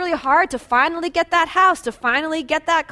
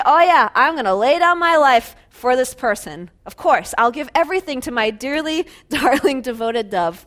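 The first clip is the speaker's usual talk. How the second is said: lovey-dovey. Retold or imitated. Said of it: "Lovey-dovey".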